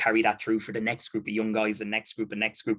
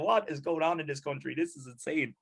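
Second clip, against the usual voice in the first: laughing mock bewilderment; 2 semitones higher than usual. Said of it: "So they just must go".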